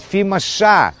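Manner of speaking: high, laughing comeback; laughing retort. Acted. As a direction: deliver the punchline through a laugh. Wife retorts in joke.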